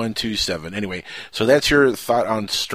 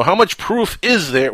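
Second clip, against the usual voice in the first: raised pitch, drawn-out reading; first reading voice; 8 semitones higher than usual. Shown as a demonstration. Host reads a listener's question on aliens, in a high voice. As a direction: question read out high and slow. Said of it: "in a better voice".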